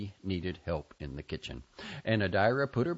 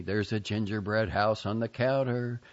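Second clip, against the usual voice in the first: slow, higher, coaxing temptation; tempting inner voice; 4 semitones higher than usual. Retold or imitated. Bacteria voice tempting her toward the gingerbread, slow coaxing. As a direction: lure her in slowly like a sweet whisperer. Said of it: "say to me".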